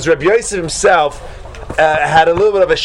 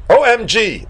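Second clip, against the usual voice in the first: shocked; 6 semitones higher, slower than usual. Acted. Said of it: "he's, like, shocked".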